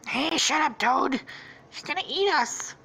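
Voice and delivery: high, urgent cartoon voice; panicked character voice. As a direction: squeak out a hushed-up warning in character. Storyteller acts out a character.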